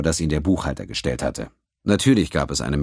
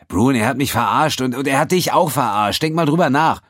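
higher and louder, building with each phrase; urgent anger; 10 semitones higher, 6 dB louder than usual. A narrator's reading. Quinn urging the pirate Brun he was tricked, rising anger. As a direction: push him to see he was fooled.

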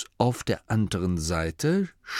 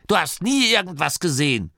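higher, cutting granny rebuke; hissed; 8 semitones higher than usual. A narrator's reading. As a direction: dismiss it sharply. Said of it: "zischte Oma Morky". (scharfe Zurechtweisung)

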